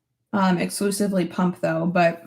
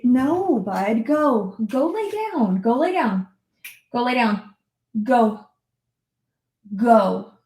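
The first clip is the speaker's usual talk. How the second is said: raised-pitch, insistent orders; firm dog command; 3 semitones higher, slower than usual. Real, not acted. Owner breaking off her story to order dog away, firm. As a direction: send the dog off firmly.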